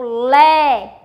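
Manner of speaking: "lé" held long and loud; forceful syllable. Shown as a demonstration. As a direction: call out "lé" with extra force. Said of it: "você pronuncia com mais força". ("lé" alongado, com mais força)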